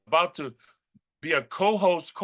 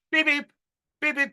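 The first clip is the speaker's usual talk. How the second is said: heart monitor beeps; 10 semitones higher than usual. Retold or imitated. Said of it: "I'm using this heart analogy".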